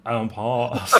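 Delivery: EMPHASIS stressed on its second syllable, on the edge of laughing; wrongly stressed syllable. Shown as a demonstration. Repeating the misstressed joke word, wrongly stressed syllable. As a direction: lean on the middle of "emphasis", amused. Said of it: "put the emphasis on the wrong syllables".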